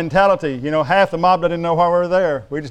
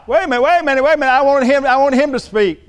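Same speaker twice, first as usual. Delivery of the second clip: high-pitched, insistent objection; urgent interruption; 6 semitones higher, 3 dB louder, faster than usual. Acted. Preacher acting out an objection to the verse, urgent interruption. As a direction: cut in urgently, pitched well up.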